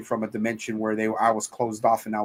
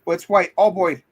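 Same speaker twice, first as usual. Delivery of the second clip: high mock panic; 6 semitones higher, 4 dB louder than usual. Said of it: "he's like".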